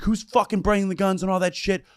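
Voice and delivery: high-pitched mock outrage; retold angry demand. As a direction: imitate an irate host demanding answers. Retold angry host confronting the crowd.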